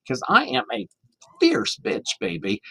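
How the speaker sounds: high, sassy drag queen voice with FIERCE shot up high. Retold or imitated. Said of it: "finally she said".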